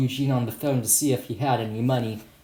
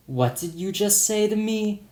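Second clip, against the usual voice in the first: higher, mildly irritated challenge; a touch of annoyance, lightly voiced; mildly pissed; 8 semitones higher than usual. Shopkeeper confronts rude customer, mildly pissed. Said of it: "said the shopkeeper in a mildly pissed voice".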